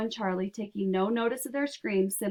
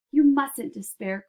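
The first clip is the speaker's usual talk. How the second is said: a louder, slow, drawn-out cry of encouragement; cried out; 5 semitones higher, 7 dB louder than usual. A narrator's reading. Wonka rallying Grandpa Joe, slow louder cry. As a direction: lean in and call it out slowly. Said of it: "cried Wonka".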